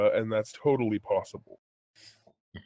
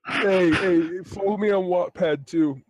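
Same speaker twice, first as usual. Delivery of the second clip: eager plug; 7 semitones higher, 5 dB louder than usual. Pretend. Joining the mock outro plug.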